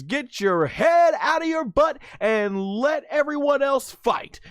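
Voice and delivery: high, shrill-free mock Bulma scolding. Bulma telling Vegeta to back off, high mock scold. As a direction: boss him around in a high pitch. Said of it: "she says".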